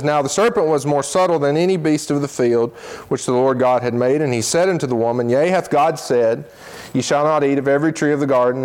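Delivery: quick, even reading of King James scripture. Acted. Preacher reading Genesis to his congregation, brisk and even. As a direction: read the passage straight through at pace. Reads Genesis three aloud.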